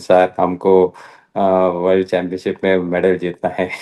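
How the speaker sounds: light imitation of a Malayali accent speaking Hindi; a hint of a Malayali accent, quoting her plainly. Player tells coach her medal goal, lightly mimicked Malayali accent. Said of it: "she's in a typical Malayali accent".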